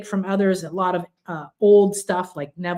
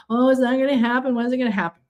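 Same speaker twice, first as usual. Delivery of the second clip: higher, quick fretful complaining; mock the anxious inner voice; impatient doubt; 5 semitones higher, much faster than usual. Speaker mimics an impatient, doubting listener, fretful. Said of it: "you're not frustrated".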